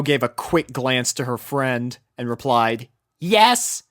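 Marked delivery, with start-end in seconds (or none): 3.2-3.8 blunt. A narrator's reading. Rainbow curt reply.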